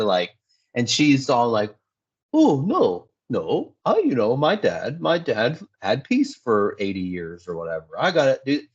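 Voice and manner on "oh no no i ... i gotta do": mock whining. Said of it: "she's just, like, whining about everything".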